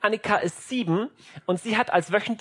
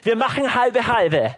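would-be nice parent; 4 semitones higher, 3 dB louder than usual. Acted. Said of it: "du willst so nett sein".

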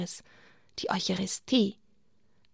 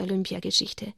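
puppet giggle; 4 dB quieter than usual. Acted. Puppet laughing at the host's word slip.

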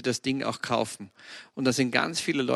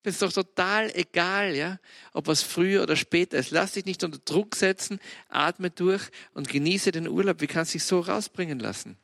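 gentle self-talk. Retold or imitated. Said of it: "Und sag".

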